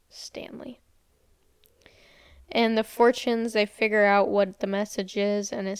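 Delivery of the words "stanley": a hushed, voiceless whisper on the name; whispered reveal. Acted. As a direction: breathe the name out like a secret. Eerie reveal of the fortune.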